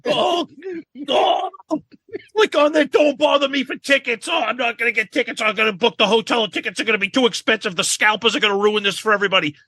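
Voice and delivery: high, fast fan chatter; mocking fans. Cohost mocking frantic fans of a band over tickets, high and fast. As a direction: rattle off the fans' panic. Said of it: "it's just like".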